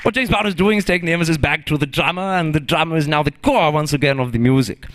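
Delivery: lecturing in a put-on German accent; mock German professor; German-accented lecture; fake German accent. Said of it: "I am not in fact German".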